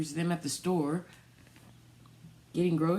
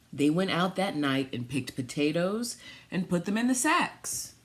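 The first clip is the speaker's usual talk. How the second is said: storybook reading; 4 dB louder than usual. Acted. Reads picture book aloud.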